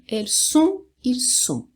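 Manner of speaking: sont as a closed nasal "õ"; tightly closed vowel. Shown as a demonstration. Teacher repeating for learners, tightly closed sont. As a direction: elles sont lifted, ils sont dropping, vowel kept closed. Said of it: "aquele bem fechadinho".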